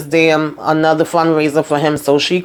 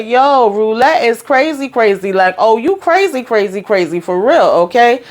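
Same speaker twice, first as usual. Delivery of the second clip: excited retelling; 3 semitones higher than usual. Retold or imitated. Viewer recapping the show to followers, excitedly retelling own reaction. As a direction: egg it on, half laughing at how wild she is. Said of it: "I say".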